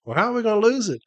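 high-pitched, baffled challenge; retold incredulity. Management's advocate told she'll lose the case, mock incredulous. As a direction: imitate her disbelief, pitched well up.

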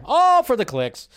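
"All" hit loud and drawn out, slowly. Shown as a demonstration. Vlogger mocking clickbait headlines, slow and loud. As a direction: sneer it slowly like a slogan.

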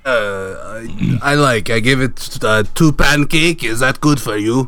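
tired lightly voiced French whale; sleepy put-on French accent. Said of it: "so tired he changed accents".

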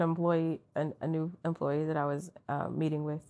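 low, soft storytelling; talking quietly. Real, not acted. Coworker starts a story about a new employee, quietly. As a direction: keep the voice down and low. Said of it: "Why are you talking so quietly?".

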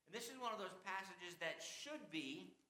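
"should be" set off as the key words; stress on SHOULD BE. Real, not acted. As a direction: lean on "should be", then pause. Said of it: "the key word is should be".

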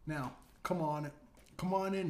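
lightly voiced old President, welcoming; Biden impression. Buddy voicing Biden's corpse to the guard as a light, welcoming Biden impression. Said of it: "in his best impression so far".

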